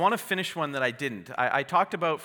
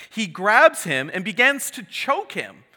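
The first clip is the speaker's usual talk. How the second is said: dramatic build; 5 semitones higher, 9 dB louder than usual. Acted. Tense moment of parable.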